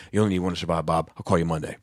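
lightly imitated dad, understated; a hint of an unbothered dad; dad's voice. Dad turning down his son's kidney offer, in dad voice. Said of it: "doing your dad's voice".

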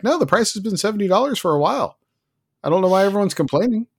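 high, quick mock-innocent brush-off; feigned innocence. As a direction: imitate a company waving away complaints. Acting out publisher's feigned innocence.

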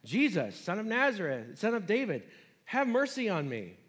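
a touch of a desperate cry; shouting. Acted. Beggar calling to Jesus from roadside, mild read-aloud shout. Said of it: "he began to shout".

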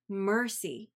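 "Mercy" set apart by pauses; stress on Mercy. Real, not acted. Reader underlining a word of scripture for listeners, stress on "Mercy". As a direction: let "Mercy" stand alone as the key word. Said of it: "I want to emphasize the word mercy".

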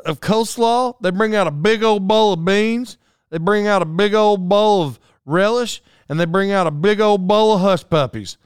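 high, loud impression of wife's country talk; hammed-up country wife; imitating his wife. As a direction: mimic wife relishing each big helping. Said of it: "That's exactly how she said it".

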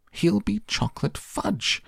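very high-pitched wail; shouted. A narrator's reading. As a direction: squeal it out high as a frantic mother. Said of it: "shouted Missus Gloop".

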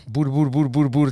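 lightly imitated gibberish of chattering aunts; mock Italian chatter. Imitating aunts talking Italian to each other, mock chatter. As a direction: babble a little like relatives talking Italian. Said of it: "they're like, you know".

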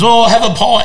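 high, chirpy mock-hospitable offer; imitating the host. Retelling the host offering him a pie, high chirpy mock voice. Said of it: "and he goes".

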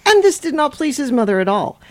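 lively storytime narration; animated bedtime-story reader; picture-book read-aloud. Acted. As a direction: read it to children with a lilting swing.

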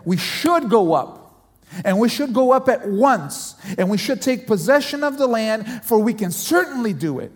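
firm, emphatic rallying call. Retold or imitated. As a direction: push each word like a bold spy urging attack. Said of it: "He said it with emphasis".

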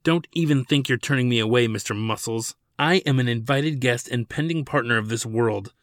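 a touch of sneering bravado. Acted. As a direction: stand your ground and let it ring. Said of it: "Ladin's voice echoed off the walls".

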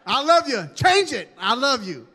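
hammed-up angry parent love; mock threatening parent. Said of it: "look at your face and think".

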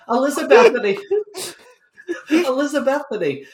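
laughing. Real, not acted. Player addressing the innkeeper after botching her name, laughing. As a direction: try to get the name out through laughter. Cracks up over the misnamed innkeeper.

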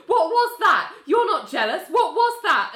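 high, loud mock jealousy; wife faking jealousy at husband; mock jealous. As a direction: huff it like a fake fight. Georgia voiced in quarrel.

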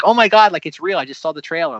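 retold breathless-fan exclamation, high loud start then easing; excited gushing. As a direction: imitate your own thrilled tweet. Retells tweeting after seeing trailer.

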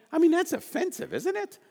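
1 incredulous. Real, not acted.

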